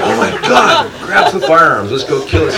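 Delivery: high, laughing rush of mock alarm; mock excited. Telling buddies to grab guns for the emu, mock excited. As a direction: sell it like a gung-ho rescue call. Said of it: "I'm like".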